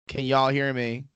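mock Carolina accent on a quoted line; thick Southern accent. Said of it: "how thick his accent was".

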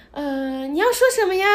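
a hint of a sweet high cast member; cutesy staff voice. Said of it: "她说".

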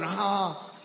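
hammed-up breathless pleading, slowed down; mock a rival who can't breathe on stage; mocking Bloomberg's gasping plea, dragged out. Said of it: "He's going".

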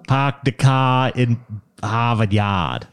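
slow Boston accent, dropped r's. Shown as a demonstration. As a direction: drawl it like a Boston local. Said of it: "Can the speaker do a Boston accent".

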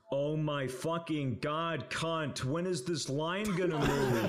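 slow, drawn-out imitation of impatience; mock exasperation. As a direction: stretch out the curse in mock despair. Acting out Matt's impatient outburst.

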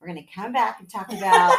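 real laugh into the break. Real, not acted. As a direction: laugh while wrapping up fast.

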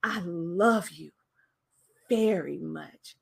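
low, soft, slow, with "love" and "very" drawn out; stress on love and very. Shown as a demonstration. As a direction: linger tenderly on "love" and "very". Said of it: "words that I hit and I elongated".

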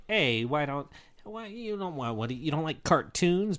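light comedian impression; a hint of stand-up impression; John Mulaney. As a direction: attempt a comic's voice, lightly put on. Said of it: "did that in the John Mulaney voice".

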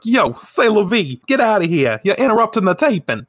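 loud, high, fast shout at the intruder; bossy director yelling off set; brusque director. Acted. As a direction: director yelling, slipping into a laugh. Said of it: "how I imagine he speaks".

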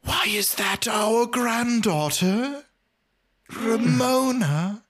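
a high, slow theatrical gasp of disbelief; mock shocked grandparents. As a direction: play stunned grandparents, drawn out and high. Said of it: "Jimmy and Kimmy both go".

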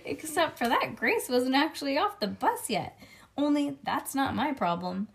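put-on lively read-aloud as a little kid narrator; chatty kindergartner storytelling; children's story narration. A narrator's reading. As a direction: read it to a child with bouncy emphasis.

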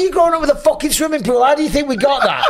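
half-laughing rant about the pool; a hammed-up dad telling off his son; mock telling-off. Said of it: "I say".

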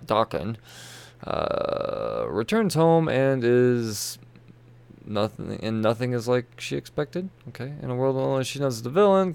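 brisk promo read of the blurb; hint of an ad voice. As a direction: read it like back-cover copy. Reads the solicitation text.

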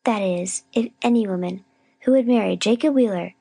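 measured, self-righteous reproach; weary scolding. A narrator's reading. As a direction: lecture her wearily after the long ordeal. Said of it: "long sigh of weariness".

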